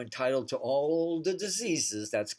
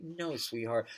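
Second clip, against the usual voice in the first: loving; 2 semitones lower, 5 dB quieter than usual. Retold or imitated. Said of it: "you lovingly say".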